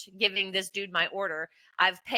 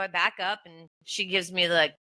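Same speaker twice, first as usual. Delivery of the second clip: ordinary talk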